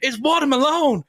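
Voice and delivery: high, excited put-on voice; imitated meme guy. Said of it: "and a guy goes".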